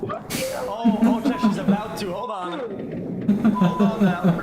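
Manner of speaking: excited. Real, not acted. Reacting to the clip in alarm.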